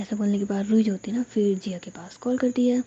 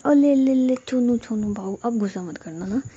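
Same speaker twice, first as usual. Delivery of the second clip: put-on baby talk. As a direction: coo at her like at a sulking baby. Jiya coaxing angry Ruhi. (लाड़ भरी तोतली बोली)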